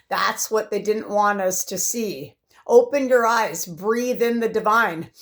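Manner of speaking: measured, declaimed poem reading; poem recital. Acted. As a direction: recite your own poem with firm emphasis. Reads own poem aloud.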